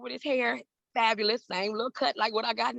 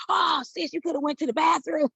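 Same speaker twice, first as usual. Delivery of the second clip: high, louder teasing big-brother voice; 8 semitones higher, 4 dB louder than usual. Retold or imitated. Prince's brother teasing her, lightly voiced high and playful. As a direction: laugh her worry off, mock him lightly.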